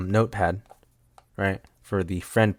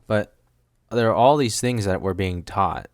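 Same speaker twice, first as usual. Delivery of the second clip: normal talking voice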